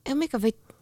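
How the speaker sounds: put-on mildly slurred, giggly tipsy teenager; drunk teen. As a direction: stumble through the words like a drunk teen. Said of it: "lukisit humalaisena teininä".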